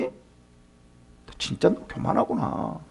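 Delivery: slow, breathy hushed rebuke; hushed accusation. Acted. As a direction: drop to a disapproving whisper. Eliphaz accuses Job of pride.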